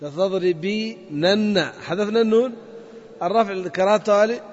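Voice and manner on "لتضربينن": slow demo. Shown as a demonstration. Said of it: "أصلها".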